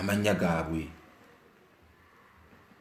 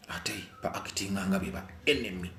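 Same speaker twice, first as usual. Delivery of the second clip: softer whispered confession; 2 semitones lower, 7 dB quieter than usual. Real, not acted. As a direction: lean in and whisper it. Confiding aside about false friends.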